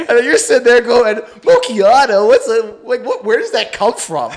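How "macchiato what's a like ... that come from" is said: slow, higher mock wonder at the menu; mock zany wonder. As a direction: drag out the word like a goofball. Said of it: "You know, like, zany guy".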